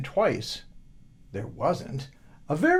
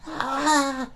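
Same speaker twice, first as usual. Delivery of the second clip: startled laugh; 11 semitones higher than usual. Acted.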